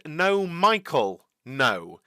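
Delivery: slow, drawn-out Austrian no; half-hearted imitation of an Austrian team boss; lightly mimicked Austrian accent. Correcting the misheard radio quote, light Austrian accent. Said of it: "such a strong accent".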